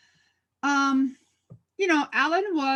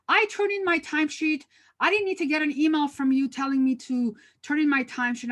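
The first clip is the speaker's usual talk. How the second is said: imitating an indignant protest, starting high; upset staff member; 4 semitones higher than usual. Staff member objecting to the manager's email, retold indignantly. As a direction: act out an aggrieved employee's complaint. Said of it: "you're really upset and angry".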